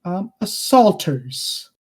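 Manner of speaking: lightly voiced king, slow and deliberate; measured royal pronouncement with weighty pauses; king addressing the party.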